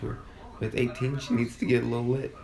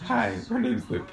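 higher, slow awkward mock greeting; mocking Luke; 10 semitones higher than usual. Teasing her friend about his awkward greeting to her mom, slow mock. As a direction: mimic his stiff shy introduction. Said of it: "You said".

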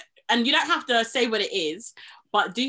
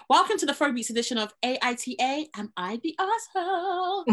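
storyteller voice; 4 semitones higher than usual. Acted. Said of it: "with my storyteller voice".

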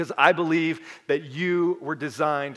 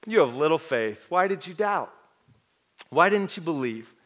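smiling Jesus; 3 semitones lower, 4 dB quieter than usual. Retold or imitated. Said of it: "I think with a smile on his face".

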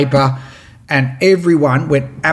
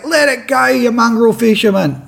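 higher, pitched-up scolding shout; mock angry heckle; 7 semitones higher than usual. Angry onlookers abusing the fisherman from boats, mock yell. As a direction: play the outraged onlooker telling him off. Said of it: "other people yelling".

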